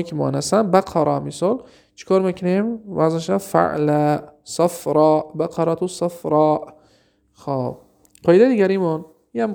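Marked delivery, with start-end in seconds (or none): 3.0-6.7 slow, careful pattern reading; slow model. Shown as a demonstration. Teacher modelling an Arabic word pattern to students, slowly. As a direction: drag out the pattern for the class. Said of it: "teacher models the word pattern".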